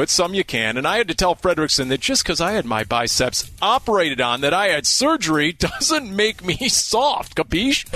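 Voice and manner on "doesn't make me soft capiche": mock tough guy. Tough-guy boast to Fredrickson.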